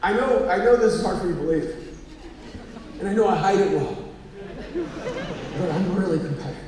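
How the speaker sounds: acted-out solemn admission; mock-earnest sincerity. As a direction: confess it gravely, as if it were news. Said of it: "it was all sincerity".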